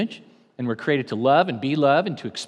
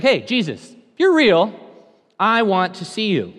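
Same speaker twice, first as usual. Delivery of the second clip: louder, higher call to Jesus; bold prayer; 4 semitones higher, 5 dB louder than usual. Retold or imitated. Teen calling out to Jesus, bold and loud. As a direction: call out boldly. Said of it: "Pretty bold, right?".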